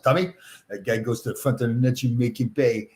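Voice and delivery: lightly imitated French-Canadian accent; a hint of a French accent as he quotes an old teammate. Recalling veteran Vadnais coaching him, light mock French accent. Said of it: "And that French accent".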